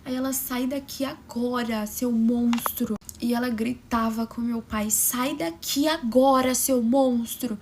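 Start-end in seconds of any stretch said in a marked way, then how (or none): 0.3-2.9 angry retold yell. Sister yelling at father. 4.9-7.6 slow, loud furious yell at the father; angry shout. Retold or imitated. Sister screaming at the father she blames, slow furious shout.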